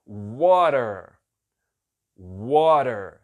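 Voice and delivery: "water" slow, with the T sounding like a tapped R; pronúncia modelo de "water"; teacher's model word. Shown as a demonstration. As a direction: model "water" slowly for students. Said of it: "a segunda palavra".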